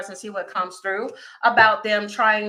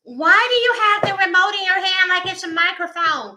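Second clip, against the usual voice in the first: put-on higher, puzzled kid voice; imitating my kids; 9 semitones higher, 4 dB louder than usual. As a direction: play the confused child, pitched up. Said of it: "they're like".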